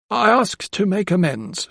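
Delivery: high, slow humble offer; a contrite woman asking to make amends; humble housekeeper. A narrator's reading.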